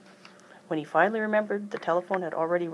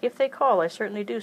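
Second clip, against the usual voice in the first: raised, insistent voice; firm and loud; 5 semitones higher, 6 dB louder than usual. Acted. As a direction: put her foot down, loudly. Aunt Lily insists firmly.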